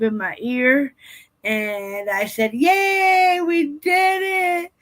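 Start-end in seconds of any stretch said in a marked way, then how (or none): 2.5-4.7 high, loud, drawn-out hurrah; sing-song victory shout, stretched long; celebratory cheer. Retold or imitated. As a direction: cheer it out in triumph. Retold celebration after the procedure.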